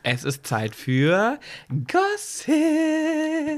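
slow build to a very high sung "Gossip"; announcer voice. Acted. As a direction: announce the segment like a show host. Announcing podcast segment.

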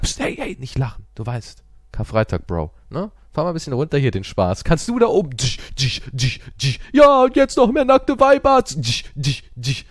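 hammed-up party host, shushing then cheering; a mock house-party voice, hushing guests on Good Friday; mock hushed party scolding. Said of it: "in meinem Kämmerchen ganz leise so".

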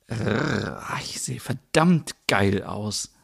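breathy slow whisper to herself. Acted. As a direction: purr it to the mirror.

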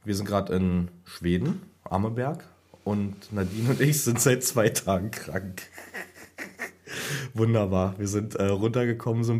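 hoarse, failing sick voice; talking with almost no voice left; voice giving out. Real, not acted. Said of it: "wenn meine Stimme versagt".

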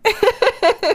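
shrieking high laughter. Real, not acted. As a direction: burst out laughing. Laughs at joke. (hohes Lachen)

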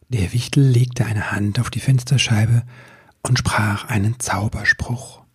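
hushed storytelling whisper; whispered narration. A narrator's reading. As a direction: breathe the words like a secret.

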